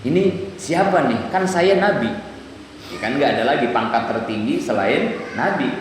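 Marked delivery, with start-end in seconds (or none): 0.0-2.1 mildly indignant puzzlement, higher pitch; retelling a baffled, slightly affronted question; puzzled Musa. Retold or imitated. Preacher voices Musa doubting the stranger, puzzled and higher-pitched. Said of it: "Bingung Nabi Musa".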